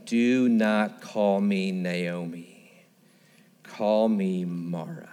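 slow, low, pained grief; slow, heavy voice of bitter grief; bitter sorrow. Acted. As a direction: speak as a woman emptied by loss. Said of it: "Can you hear it in her voice?".

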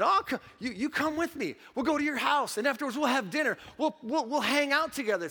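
a joyful, eager welcome with a laugh; Jesus inviting. Retold or imitated. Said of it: "Jesus would have said".

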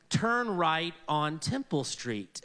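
slow, even mock navigation voice; GPS voice. Phone map giving directions, in a mock sat-nav voice. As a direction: read it like a flat sat-nav. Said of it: "it says".

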